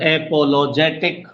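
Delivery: अपोलोजेटिक slow and low, rising at टिक; stressed syllable demonstration. Shown as a demonstration. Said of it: "जोर पड़ने का मतलब stress है".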